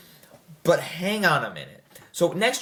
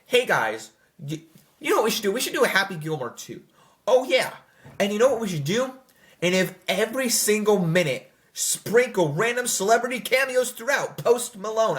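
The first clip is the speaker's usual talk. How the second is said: higher, rushed, gleeful pitch-meeting voice; mocking studio exec; 6 semitones higher than usual. Mocking the sequel's makers, a hyped exec voice. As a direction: play a hyped executive spitballing. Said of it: "This is like".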